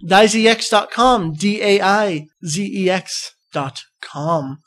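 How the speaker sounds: each letter slowly, clearly; slow spelled out. Shown as a demonstration. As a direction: spell daizx dot com deliberately. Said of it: "That is C O N T E S T".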